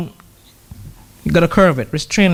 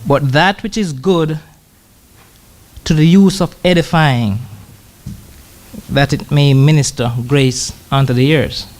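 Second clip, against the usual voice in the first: slow, measured Bible reading; solemn scripture recitation; slower than usual. Acted. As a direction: read the verse out deliberately, word by word. Reads scripture aloud.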